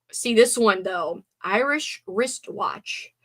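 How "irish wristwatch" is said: slow, deliberate articulation; slow careful tongue twister. Shown as a demonstration. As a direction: spell out each sound slowly. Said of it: "the classic Irish".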